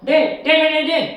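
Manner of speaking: loud, high frantic yells; frantic shouting. Acted. Man yelling into the dead phone, frantic shouts. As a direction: shout after him in panic. Frantic calls after clerk hangs up.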